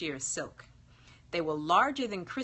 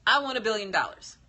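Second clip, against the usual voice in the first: fast, louder eager wish; excited blurt; 4 semitones higher, 6 dB louder, faster than usual. Acted. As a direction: blurt it out before you can think. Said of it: "but excitement gripped him".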